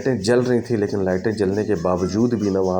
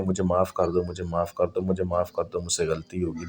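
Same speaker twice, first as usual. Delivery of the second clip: softer and softer, a mock sobbing plea; imitated tearful pleading; 2 semitones lower, 5 dB quieter than usual. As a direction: beg for forgiveness, fading. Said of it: "رونا دھونا شروع کر دیا".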